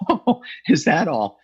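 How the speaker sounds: slow, mock-unimpressed drawl; sarcastic. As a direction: sneer that it's nothing special. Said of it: "And I thought".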